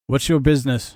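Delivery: a guard shouting down from the tower; guard calling down. Acted. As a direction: call it loud from high above. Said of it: "guard that calls down from the".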